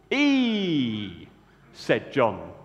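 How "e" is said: put-on northern accent. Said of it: "developed an inexplicable northern accent".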